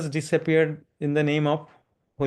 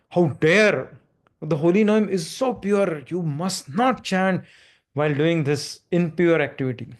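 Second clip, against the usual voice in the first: mild mock anger. Proud scholar scolding the saint, mildly angry. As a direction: scold him, slowing on the warning. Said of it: "He's so angry".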